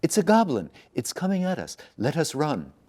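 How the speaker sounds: high, loud panicked scream; terrified scream. Acted. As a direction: scream and flee from the goblin. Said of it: "and screamed".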